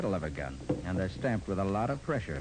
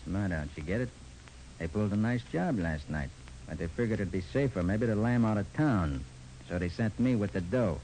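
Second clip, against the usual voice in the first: gangster dialect; 2 semitones lower than usual. Acted. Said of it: "in my best gangster dialect".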